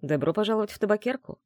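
lightly smiling greeting from a host; smiling welcome. Acted. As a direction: welcome the guest with a smile. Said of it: "с улыбкой ответил".

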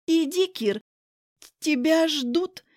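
high, drawn-out mock-girlfriend voice; mimicking his girlfriend. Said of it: "попыталась я сказать так же, как его спутница".

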